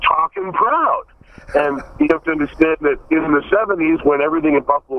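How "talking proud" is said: imitating O J. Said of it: "the best part was he went".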